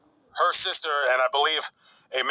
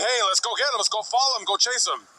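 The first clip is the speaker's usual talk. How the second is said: higher, eager urging to chase the car; 6 semitones higher, faster than usual. Retold or imitated. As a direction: egg him on, a touch excited. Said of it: "starts saying".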